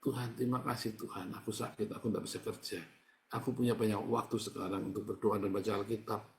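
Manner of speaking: a hint of humble prayer; quiet grateful prayer. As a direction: pray it gently. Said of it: "Mengucap syukur".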